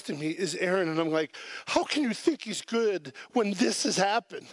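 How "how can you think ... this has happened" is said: higher, indignant retold question; mad protest. Preacher retells challenging the worship leader's song choice, indignant. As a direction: replay an exasperated challenge, pitched up. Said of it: "And I am mad".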